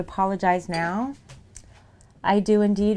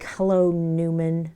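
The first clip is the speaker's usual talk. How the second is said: a slow, mock-mean "Hello, Newman"; mean Seinfeld quote; 3 semitones lower, slower than usual. Joking with chat about a Seinfeld greeting, mock-mean. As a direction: drag out "Hello, Newman" with playful contempt. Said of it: "I'm saying this really meanly to you".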